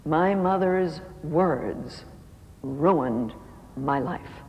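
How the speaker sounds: very slow, low, broken words; mild imitated sobbing through each word. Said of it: "started to sob".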